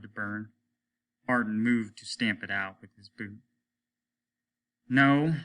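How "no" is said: loud, higher barked "No"; commanding captain's no; sharp order. Acted. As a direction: stop him with one hard word. Captain forbids stamping out fire.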